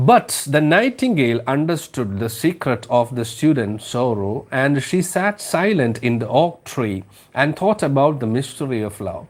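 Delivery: slow, lilting storybook read-aloud; slow story reading. Acted. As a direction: read it slowly, savouring each phrase. (പതുക്കെ കഥ വായന)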